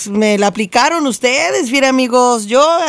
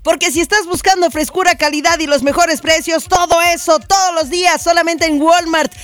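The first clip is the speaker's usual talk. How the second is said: radio ad read; 2 semitones higher than usual. Acted. Host reading a Walmart commercial to listeners, upbeat ad voice. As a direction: sell it like a cheerful announcer.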